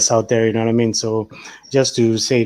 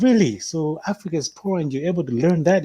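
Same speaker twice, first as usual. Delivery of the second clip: high, amazed questioning; mock surprise; 5 semitones higher than usual. Irish people doubt his English, mock surprise, higher. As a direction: act stunned, higher pitch. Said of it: "they're actually surprised".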